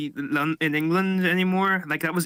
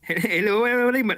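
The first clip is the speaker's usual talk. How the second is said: laughing accent attempt; 5 semitones higher than usual.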